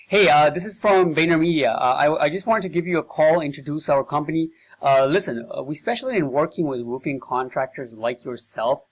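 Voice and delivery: lightly performed salesman on the phone; energetic sales pitch. Shown as a demonstration. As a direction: pitch the roofer with eager confidence. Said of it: "I'm gonna read it with the emphasis".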